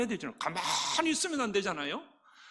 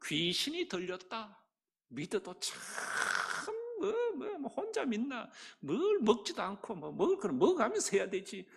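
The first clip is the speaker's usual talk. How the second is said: scoffing. Retold or imitated. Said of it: "이 시대가 뭐라고 말해요?".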